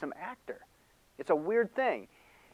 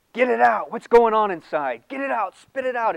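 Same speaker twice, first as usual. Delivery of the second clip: higher and louder, pushy coaxing; mock therapist urging; 7 semitones higher, 8 dB louder than usual. Mocking therapy advice.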